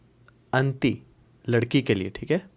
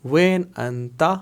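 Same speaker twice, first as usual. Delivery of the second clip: slow spelled-out form; 2 semitones higher, much slower than usual. Shown as a demonstration. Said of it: "تینوں لفظوں کو اکٹھا کر کے".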